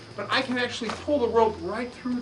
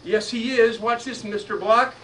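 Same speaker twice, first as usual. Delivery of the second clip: put-on loud, teasing kid-show voice; hammed-up showman; 5 dB louder, slower than usual. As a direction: tease the audience like a circus act.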